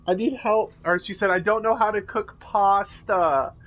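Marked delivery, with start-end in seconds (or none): 0.1-0.7 whiny sister voice. Retold or imitated. Mimicking whiny stepsister. 1.3-3.5 whiny sister voice. Retold or imitated. Mimicking whiny stepsister.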